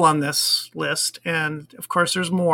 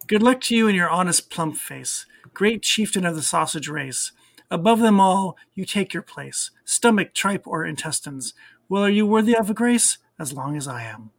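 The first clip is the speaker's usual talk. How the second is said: measured verse reading with a lilt; poem recitation. Acted. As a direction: read it out as rhyming verse. Reads Burns poem in translation.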